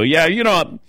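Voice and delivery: mock know-it-all. Trying to fit in with racing people, mock know-it-all. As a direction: play at sounding like an insider. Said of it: "trying to sound like I knew".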